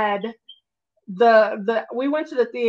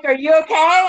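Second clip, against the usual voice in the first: concerned coworkers; 5 semitones higher, 5 dB louder than usual. Retold or imitated. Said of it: "They were like".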